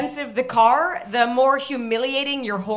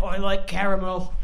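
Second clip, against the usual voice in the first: put-on Cockney accent; 5 semitones lower, 3 dB quieter than usual. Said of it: "in a Cockney accent".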